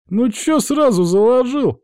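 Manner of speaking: very high, drawn-out whine; slow, high-pitched plaintive lad; whining. A narrator's reading. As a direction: whimper in protest at the accusation. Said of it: "захныкал тот".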